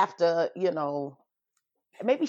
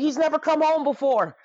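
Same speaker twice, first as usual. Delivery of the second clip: laughing; 9 semitones higher than usual. Retold or imitated. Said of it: "He's like".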